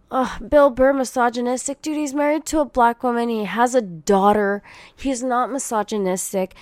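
incredulous rant; exasperated outburst. Real, not acted. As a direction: blurt out in disbelief. Exasperated rebuttal to tweet.

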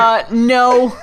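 a shouted, laughing denial; loud no. Real, not acted. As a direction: blurt it out loud. Emphatic denial, shout heard.

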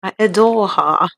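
mock British accent. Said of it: "Did you like my British accent?".

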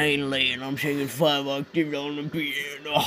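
a lightly changed character voice for the joke; put-on joke voice. Host tells cohosts a joke in a lightly put-on voice. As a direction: slip into a half-hearted silly persona. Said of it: "I'm gonna tell it like this the whole time".

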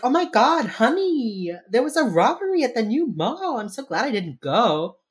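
high, loud gushing voice; gushing wife. Retold or imitated. Wife greets her husband, high and loud gushing. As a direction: gush like a relieved wife. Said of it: "Haley's like".

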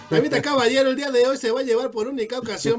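chilango metro vendor. Pretend. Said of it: "Nada sabe más a metro que ese acento".

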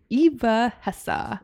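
Eva Hesse said slowly, EE-va HESS-eh; careful slow Eva Hesse. Shown as a demonstration. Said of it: "People always say her name differently".

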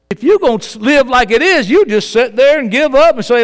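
loud, high-pitched sermon delivery; full-force preaching. Real, not acted. Preacher tells an unbeliever he is bold and confident, full-force preaching. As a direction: drive it home loudly to the doubters.

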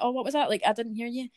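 high, falsely sweet pretend puzzlement; mock-polite. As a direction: act as if you didn't hear. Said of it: "Just being like".

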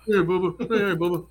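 high-pitched cooing to a pet; pet talk. Real, not acted. Speaker fusses over Bubba, high playful pet talk. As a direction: raise your voice playfully for a pet.

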